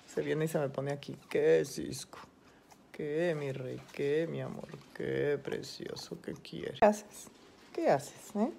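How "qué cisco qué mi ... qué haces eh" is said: cooing to a pet. Real, not acted. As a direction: coo lovingly to the little bird. Cooing to her pet parrot.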